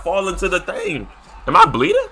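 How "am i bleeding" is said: squeaky alarm. Real, not acted.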